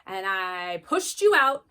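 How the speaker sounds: hammed-up outraged mom; mock shocking. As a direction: lay it on thick to startle a daughter. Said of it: "Sometimes I shock her".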